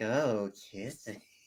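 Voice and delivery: spooky, soft, hushed put-on ghost voice. Describing how she says it, imitating her ghost voice. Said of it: "like her ghost voice".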